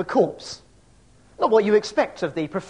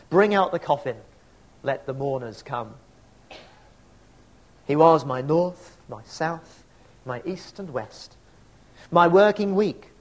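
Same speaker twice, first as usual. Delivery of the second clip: poem recitation. Acted. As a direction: recite it like a mourner at a graveside. Recites Auden funeral poem.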